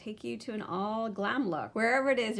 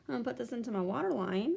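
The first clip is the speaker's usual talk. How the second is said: quick, slightly raised sing-song; half-aware silly voice while concentrating; odd rushed voice; 3 semitones higher, faster than usual. Real, not acted. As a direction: rattle it off in a funny put-on voice. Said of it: "I don't know why I'm talking like that".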